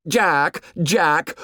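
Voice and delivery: bitter mimicry. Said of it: "Jack's voice sounded in bitter mimicry".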